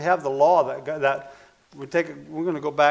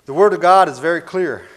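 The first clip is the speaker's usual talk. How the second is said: forceful preaching; 3 semitones higher, 11 dB louder than usual. Real, not acted.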